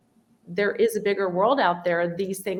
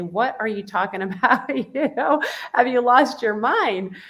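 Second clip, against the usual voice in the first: incredulous; 4 semitones higher than usual. Retold or imitated. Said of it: "natural for a parent to say".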